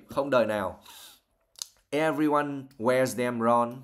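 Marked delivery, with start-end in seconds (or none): 1.9-3.8 cross. Acted. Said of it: "said Missus Weasley crossly".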